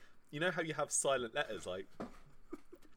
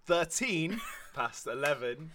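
slow, chuckling as he counts the time; sheepish laugh mid-sentence; 3 semitones higher, 5 dB louder, slower than usual. Real, not acted. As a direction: drag it out through a laugh. Slowly working out the time.

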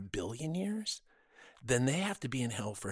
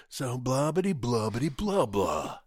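mocking a bore's chatter; mock babble; 4 dB louder than usual. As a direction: rattle off empty babble. Mimicking a banker's chatter.

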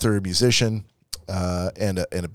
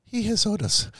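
put-on Mexican accent; 12 semitones higher than usual. Landscaper voice returns.

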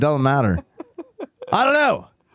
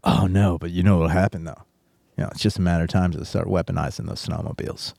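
grave, hushed concern; dead serious; 5 semitones lower, 3 dB quieter than usual. Retold or imitated. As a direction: lower and softer, deadly earnest. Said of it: "the level of seriousness in their voice".

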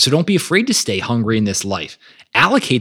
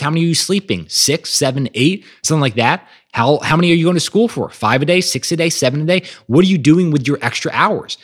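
mock angry Arnold; 4 semitones higher than usual. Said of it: "And Arnold gets pissed off".

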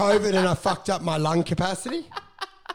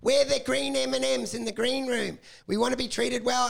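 mock whiny comic, pitched higher; whining hack comics; 5 semitones higher than usual. Imitating whining hack comics demanding backstage treats, mock whine. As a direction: lightly whine like an entitled performer. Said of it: "all these whining little hack comics".

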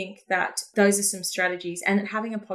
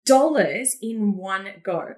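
slow, drawn-out marvelling, pitched higher; dreamy awe; 4 semitones higher, much slower than usual. Retold or imitated. Entrepreneur daydreaming while hearing another launch, slow awed voice. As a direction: savour the dream of that much money.

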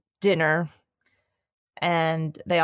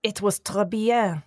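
mock French accent. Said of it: "answering in French".

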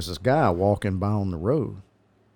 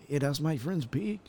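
higher, softer mock Hispanic accent; 5 semitones higher, 7 dB quieter than usual. Showing why the owner needed help with English, mock Hispanic accent. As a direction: put on a Hispanic accent, high and soft. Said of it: "Is that your Hispanic accent?".

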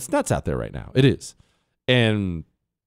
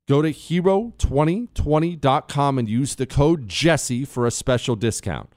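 ad read. Acted. Ad read, slow and emphatic.

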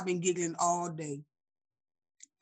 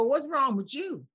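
slow, higher-pitched playful challenge; mock challenge; 5 semitones higher, slower than usual. Shown as a demonstration. Leaning back at a moody stranger, mock challenge. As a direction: draw the question out, lightly confrontational.

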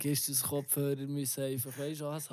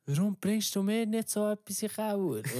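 indignant husband; 7 semitones higher than usual. Retold or imitated. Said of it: "und sagt so".

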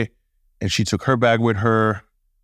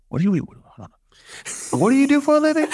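high, laughing disbelief; incredulous; faster than usual. Retold or imitated. Asking his father what he really does for a living, with laughing disbelief. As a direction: squeak out the question in disbelief.

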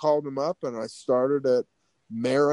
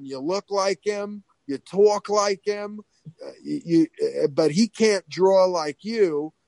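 higher, insistent mock Long Island voice; Harvey Fierstein; 4 semitones higher than usual. School boss recruiting the teenager, Fierstein impression. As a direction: urge him on as an imitated Long Island salon man. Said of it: "sounded like Harvey Fierstein".

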